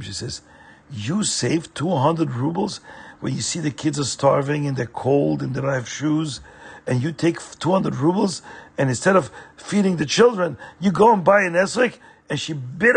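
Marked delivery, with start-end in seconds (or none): 0.9-11.9 upset wife. Acted. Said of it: "she gets very upset at him".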